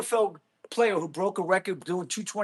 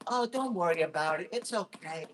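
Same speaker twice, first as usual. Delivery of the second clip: mock reassurance; 3 dB quieter than usual. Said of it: "I don't sugarcoat nothing".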